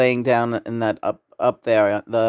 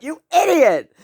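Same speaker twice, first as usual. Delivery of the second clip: retold laughing scream; 6 dB louder than usual. Retelling yelling at Herman over Bunny, shrieking with laughter. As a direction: shriek it like you're cracking up. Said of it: "I was screaming".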